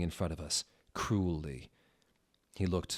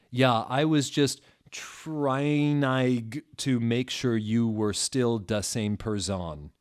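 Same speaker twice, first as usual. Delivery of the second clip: triumphant giggle; 4 semitones higher, 5 dB louder, slower than usual. Acted. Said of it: "he triumphantly giggled".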